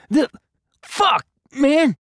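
high, strained shout while winded; breathless outcry. Acted. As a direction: yelp it out with the wind knocked out. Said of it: "as he panted".

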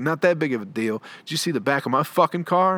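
imitating an indignant dad, rising in pitch; pissed off. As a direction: throw it back like an annoyed dad. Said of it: "he was so fucking pissed".

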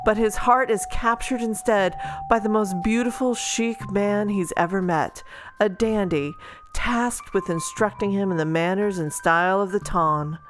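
steady back-cover blurb read. Acted. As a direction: read it like a book jacket. Reads the book blurb.

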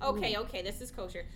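soft low sly voice; low murmur. Acted. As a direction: murmur it suggestively. Mom sneakily flirting, lowered voice.

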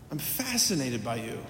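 a quiet, awed echo of the line. Retold or imitated. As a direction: let the repeat fall hushed and tender. Repeated, softer and lower.

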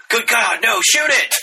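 mock panic. Bystanders mistaking him for a bear, high mock panic. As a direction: yell like a scared onlooker.

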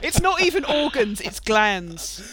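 laughing while talking; amused. Real, not acted. Laughing at the line.

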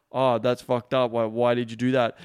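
slow, judging disbelief; judgmental. Shown as a demonstration. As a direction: react with open disapproval, drawing out the first words. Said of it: "never come from a place of judging her".

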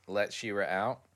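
ordinary delivery

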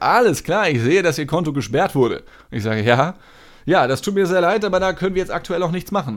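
cheerful apologetic agent; customer service voice. Retold or imitated. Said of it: "so übertrieben freundlich".

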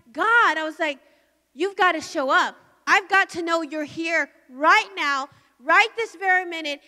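insist, crying out to heaven; urgent shouted prayer; loud pleading prayer. Real, not acted. Putting a demand on heaven.

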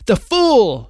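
high, loud cackling witch cry; witch's cry. Acted. The White Witch crying out at Aslan, high loud cry. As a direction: crow it out like a triumphant witch. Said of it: "she cried".

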